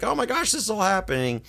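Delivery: high, urgent retold panic; lightly hammed-up freak-out; mock freaking out. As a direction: blurt it like a panicked wife. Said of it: "she's freaking out".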